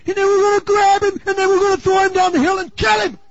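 loud, high, furious shouting of the mob; angry mob shout. Acted. Preacher shouting as the murderous hometown crowd, furious. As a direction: bellow it like a mob about to kill.

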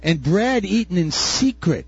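slow, luring voice of the seductress; slow mock seduction; enticing. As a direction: draw them in slowly like a temptress. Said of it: "she says".

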